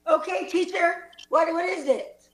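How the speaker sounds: faked tearful stammer; very sad. Student asking teacher about bad news, very sad. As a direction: act on the edge of tears. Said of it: "we're all very sad".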